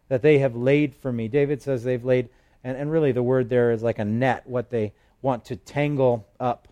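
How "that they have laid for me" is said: scripture reading. Acted. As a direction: read it like a prayer to God. Psalm read aloud as prayer.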